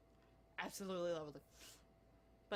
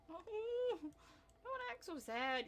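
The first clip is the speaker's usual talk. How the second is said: coaxing a pet; 10 semitones higher, much slower than usual. Real, not acted. Coaxing the sulking dog.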